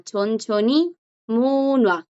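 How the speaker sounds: chonchoni munua with the J left silent. Shown as a demonstration. Teacher shows students the sound, munua with silent J. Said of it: "hace que no suene y suena".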